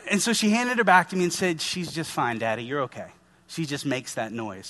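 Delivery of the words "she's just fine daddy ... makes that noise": lower, softer calm reassurance; reassuring. Retold or imitated. Nurse calming the panicked father, gently reassuring. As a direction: soothe a frightened dad.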